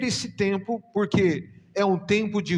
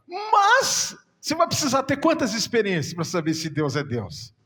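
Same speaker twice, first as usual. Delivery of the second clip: higher, louder voice breaking into tears; tearful appeal; 4 semitones higher, 4 dB louder than usual. Real, not acted. Preacher asking the congregation, crying as he speaks. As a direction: plead with the church through tears.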